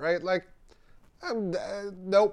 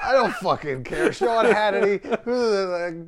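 loud, higher, fast angry rant; angry outburst; 6 semitones higher, 5 dB louder than usual. Real, not acted. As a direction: really shout down the people you hate. Ranting about hated pundits.

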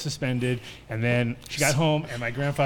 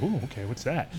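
fake innocent; 4 dB quieter than usual. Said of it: "Pretending I don't know nothing".

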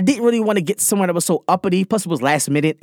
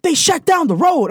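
higher, slower, emphatic repeat; insistent mock mom repeating the news; repeating it louder; 12 semitones higher, 3 dB louder, slower than usual. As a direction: say it again, louder and slower so he gets it. Mom repeats after "They did what?.

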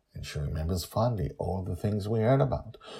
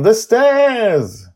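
put-on high, eager girl's voice; a young girl thrilled at what she sees; excited child Joy; 16 dB louder than usual. Joy spots the cloud city, high and thrilled.

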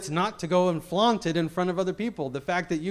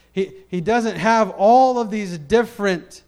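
emphatic preaching; 6 semitones higher, 9 dB louder than usual. Real, not acted.

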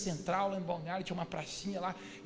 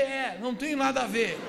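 eager agreement; 3 semitones higher, 6 dB louder than usual. Retold or imitated. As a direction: jump in to back up your own alibi. Narrador concorda depressa com o estranho. (concordando alto, na hora)

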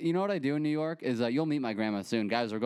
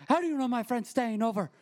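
high-pitched little Italian lady; imitating yelling Italian grandma; 12 semitones higher than usual. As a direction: do an indignant old Italian grandma. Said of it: "these little Italian ladies yell".

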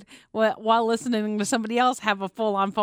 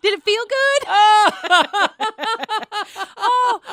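high laughing mimicry; 10 semitones higher, 7 dB louder than usual.

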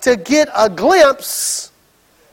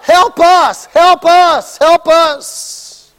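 mock panicked plea; 4 semitones higher, much slower than usual. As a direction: beg for rescue in panic. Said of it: "They're crying out".

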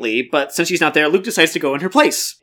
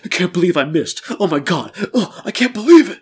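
dazed disbelief. Acted. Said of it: "in a daze".

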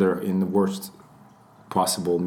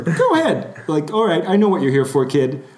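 imitated celebrity, raised pitch and volume; relenting Southerner; 7 semitones higher, 4 dB louder than usual. Southern celebrity to waiting young fan, relenting. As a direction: play him impatiently inviting the fan's praise. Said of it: "the frown kind of, like, released".

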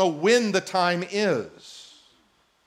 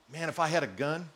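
laughing aside; 3 semitones lower, 9 dB quieter than usual. Real, not acted. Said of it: "Just kidding".

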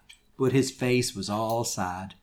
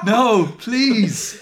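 high, loud plea broken by laughter; beg, but crack up laughing; begging; 9 semitones higher, 6 dB louder than usual. Acted. Reader begging Voldemort while laughing, a mock plea. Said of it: "I begged".

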